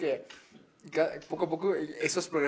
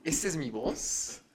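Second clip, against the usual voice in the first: slow retold question; 4 dB quieter, slower than usual. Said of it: "me dijiste".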